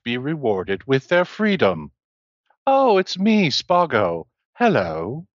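a hint of a robot warden's voice; lightly voiced robot bluffing over the intercom; Spago impression. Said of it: "attempt to replicate Spago's voice".

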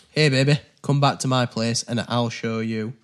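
cheeky Yorkshire come-on; Yorkshire accent. Shown as a demonstration. Player filling in the card's blank, Yorkshire accent. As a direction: read the chat-up line in natural Yorkshire. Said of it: "In Yorkshire".

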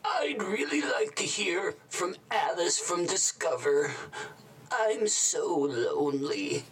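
hushed aside; whisper. Acted. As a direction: whisper it to the viewer.

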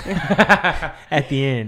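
words pushed out through laughter; laughing. Real, not acted. Host cracking up at his own joke, laughing through the words. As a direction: laugh your way through it, very slow.

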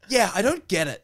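put-on girlfriend's father, confused, laughing; quoting Chris. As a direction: play the baffled dad, laughing. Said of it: "And he's like".

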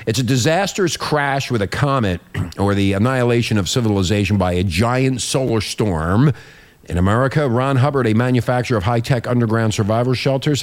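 radio report read aloud; news read. Acted. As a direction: read it out like a newscaster. Host reads a news report.

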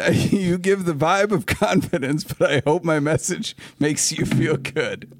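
put-on slow Southern-accented email reading. Host finishing a fan's email, slow Southern accent. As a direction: draw the lines out in a Southern accent. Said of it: "reading this in a Southern accent".

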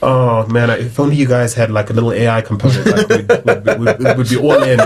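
mock VC pitch talk in an American accent; lightly hammed-up American accent. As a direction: put on an American accent for a dismissive investor. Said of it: "I just went into an American accent".

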